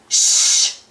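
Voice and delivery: hushing whisper. Pretend. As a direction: hush the listener gently. Hushing at sunset, sleeping meadow.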